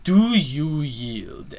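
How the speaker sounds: lightly voiced king penguin, drawn out at the end. Penguin king challenging Bowser to yield, lightly voiced and stately. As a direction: mimic a proud movie challenge, stretching the final words. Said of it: "This King Penguin pe-, character".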